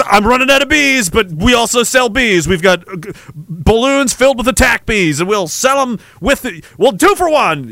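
salesman ad read; infomercial pitch. Pretend.

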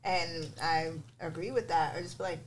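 chewing while talking; mouth full. Real, not acted. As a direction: talk through a mouthful. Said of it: "sorry, 'cause now I'm chewing".

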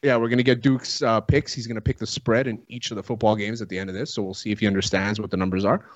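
talking around a wad of chew; chewing tobacco. Real, not acted. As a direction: mouth full of tobacco, a bit wet. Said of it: "With the tobacco in my mouth".

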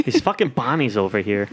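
put-on Boston accent. Host riffing to co-hosts, Boston accent. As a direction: grumble like a Boston local. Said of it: "hates the Boston accent so much".

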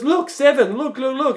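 high, loud broken-English impression; mock Vietnamese accent. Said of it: "trying to do the accent".

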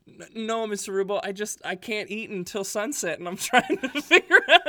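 high-pitched, loud, laughing through the words; laughing high plea. Retold or imitated. Boy laughing as he explains fasting to the host dad. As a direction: squeal out the excuse while cracking up.

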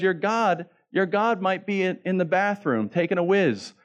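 high-pitched taunt at normal volume; retold taunting shout. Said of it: "that's what he shouts".

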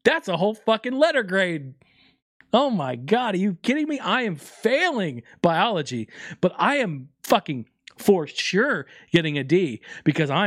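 put-on high, excited kid voice; raging gamer. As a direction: hype yourself up like a kid. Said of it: "You know what little Jason thought".

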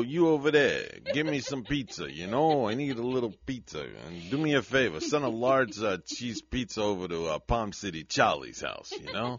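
put-on Italian-American wise-guy accent. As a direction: order like an Italian-American movie tough guy. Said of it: "with this accent".

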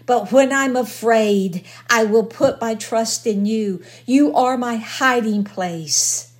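loud, fervent psalm reading from the pulpit; preaching scripture. Acted. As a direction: proclaim each plea with full force. Reads psalm aloud at full force.

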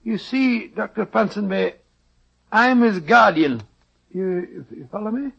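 a lightly done Scottish brogue, rolling and folksy; doctor hides behind a fake Scottish accent; put-on Scottish accent. Disguised doctor bargains with the schoolmaster in put-on Scottish accent. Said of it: "your Scottish accent is beginning to disappear".

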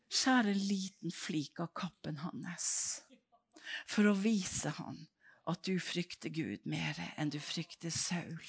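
calm, quiet divine instruction; God speaking. Acted. God quietly instructs David, slow and soft.

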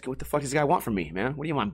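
ordinary talk, nothing marked

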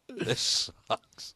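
unvoiced, miserable aside; retold hushed disgust; whispered grumble. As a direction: whisper your complaint from the back row. Retelling his misery at concert.

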